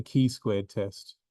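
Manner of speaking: "chi" said as KEE, with a hard k; Greek-style CHI. Shown as a demonstration. Teacher showing how Greeks would say it, "chi" as kee. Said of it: "if it was Greek".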